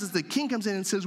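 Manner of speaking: usual speaking voice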